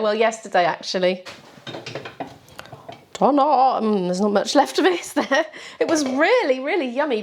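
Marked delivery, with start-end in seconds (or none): 3.1-3.8 excited. Real, not acted. Unveiling her lunch to camera.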